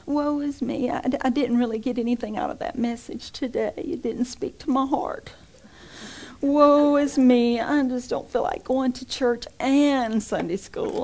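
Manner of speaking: lightly hammed-up self-pity, sighing; mock the complaining believer; mildly mocking petty lament; mock whiny churchgoer. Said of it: "mocking whiny churchgoer".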